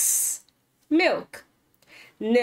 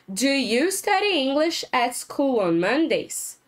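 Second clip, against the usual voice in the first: slow repeated question; slower than usual. Shown as a demonstration.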